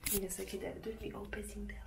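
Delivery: hushed so the sleeping pet stays asleep; whisper. Real, not acted. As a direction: whisper over the sleeping ferret. Near sleeping ferret, hushed.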